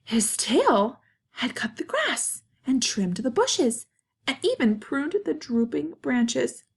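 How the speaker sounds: expressive storybook narration with pauses; reading to children. A narrator's reading. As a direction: tell it to kids, lifting and stretching key words. Reads picture book to children.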